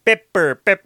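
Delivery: lightly imitated funny pronunciation; playful repeat-after-me mimicry; silly mimicked voice. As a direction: parrot the comic movie voice. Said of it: "trying to talk like this".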